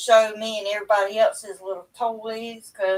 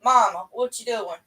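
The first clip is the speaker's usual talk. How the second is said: imitating daughter. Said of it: "she'll call me in a heartbeat".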